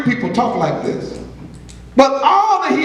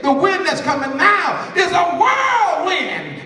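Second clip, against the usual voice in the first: slow, higher preaching cry; prophetic warning; 6 semitones higher than usual. Acted. Preacher voicing the prophet to the congregation, prophetic warning. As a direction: stretch out WHIRLWIND as a warning.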